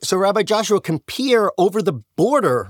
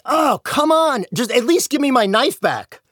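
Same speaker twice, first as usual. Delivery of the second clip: exasperated plea; 7 semitones higher than usual. Retold or imitated. Angel pleads for his knife.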